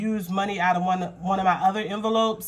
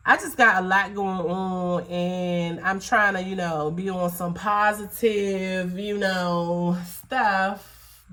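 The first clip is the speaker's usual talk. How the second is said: choked up; slower than usual. Real, not acted. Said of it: "I'm so choked up".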